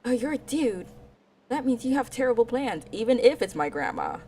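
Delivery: lightly voiced snippy anime girl; a hint of a haughty tsundere. Tsundere girl scolding the boy, mild snippy voice. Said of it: "typical tsundere girl who's like".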